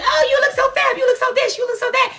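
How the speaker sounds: high-pitched fawning compliment; gushing fan voice. Retold or imitated. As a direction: gush over her like a starstruck fan. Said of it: "everybody's like".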